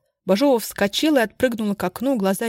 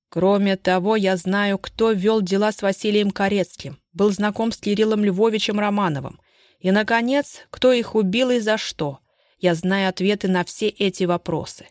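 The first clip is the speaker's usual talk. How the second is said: growing threat. Acted. Stepan pressing the suspect with accusations, rising menace. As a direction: build from firm to threatening. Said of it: "громче и всё более угрожающе".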